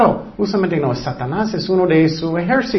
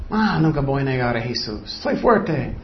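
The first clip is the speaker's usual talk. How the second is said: lower, softer self-satisfied boast; smug pride; 5 semitones lower, 6 dB quieter than usual. Retold or imitated. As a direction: savour the proud words quietly. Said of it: "Es orgullo". (orgullo engreído, más grave y suave)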